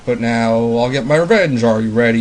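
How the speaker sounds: lightly voiced grumpy game character, flat tune; a hint of a cranky monster woken from a nap; monotone bomb guy. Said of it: "That's how that guy talks. He's very monotone".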